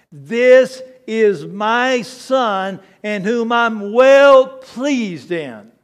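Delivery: slow, booming voice of God from heaven. Acted. Preacher booms the Father's words from heaven slowly.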